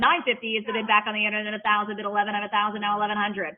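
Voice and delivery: brisk rolling auction chant of numbers; auctioneer bid calling. Acted. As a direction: call the bids like a live auctioneer.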